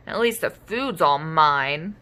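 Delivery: slow, sulky grumble; a sulking dino muttering to himself; grumbled. Acted. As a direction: grumble it alone with a scone. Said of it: "he grumbled".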